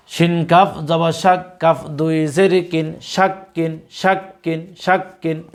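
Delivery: teacher's recitation, letter by letter; slow spelling drill. Shown as a demonstration. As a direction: spell each letter slowly, then say the word thrice. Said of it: "আপনারা আমাদের সাথে repeat করার চেষ্টা করুন". (ধীরে বানান করে তিনবার উচ্চারণ)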